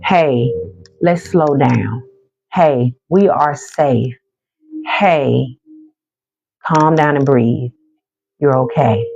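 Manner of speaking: calm reassuring self-talk, slowed; self-soothing. Shown as a demonstration. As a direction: talk yourself down gently.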